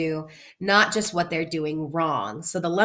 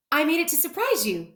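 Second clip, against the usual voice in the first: happily; 7 semitones higher, 3 dB quieter than usual. Acted. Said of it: "said Amelia Bedelia happily".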